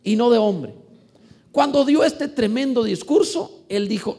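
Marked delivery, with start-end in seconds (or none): 0.0-0.7 slow, loud mock crowd cry; crowd acclaim. The people acclaiming Herod, a drawn-out mock shout. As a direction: call it out like the crowd praising the king. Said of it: "el pueblo aclamaba gritando".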